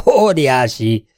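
loud, high cry of amazement; excited exclaim. A narrator's reading. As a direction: burst out in wonder. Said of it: "kiáltott fel Mark".

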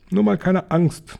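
high, slow, sing-out encouragement; coaxing reassurance. A narrator's reading. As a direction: coax away the fear, drawn out and high. Husband encourages frightened wife.

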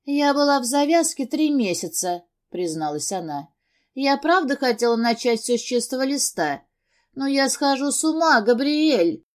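sobbing confession. A narrator's reading. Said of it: "зарыдала".

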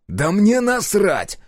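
loud, high, slow snarl; snapping. A narrator's reading. Hero snaps back at the general. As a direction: bite back furiously. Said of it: "огрызнулся я".

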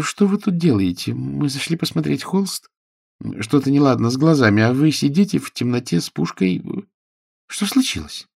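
high, fussy questioning; lady's voice. A narrator's reading. Lady demands to know why he sits with a gun, high. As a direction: pester him with questions.

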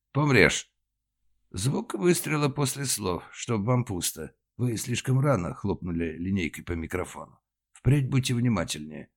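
high, slow annoyed reprimand; irritated scolding. Acted. Director scolding the stage manager, annoyed. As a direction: scold her for the early cue.

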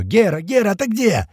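high, searching shout; calling for someone. A narrator's reading. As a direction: cry out for a missing comrade. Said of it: "затем подхватывают ещё".

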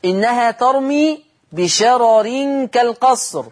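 slow, measured recitation of إنها ترمي بشرر كالقصر; Quranic recitation. Shown as a demonstration. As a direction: recite the verse slowly with tajweed. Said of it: "لفظ بشرر".

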